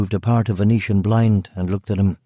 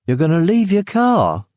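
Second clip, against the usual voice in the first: guard's voice; 9 semitones higher than usual. Acted. Guard incredulous.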